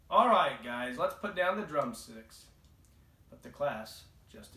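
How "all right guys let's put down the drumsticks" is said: taking control. Acted. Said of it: "Dave tried to take control".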